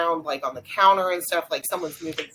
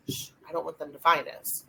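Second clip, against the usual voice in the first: softer, re-enacted hush to a companion; lightly hushed, as if hiding; hushed retelling; 6 dB quieter than usual. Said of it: "I say it real softly".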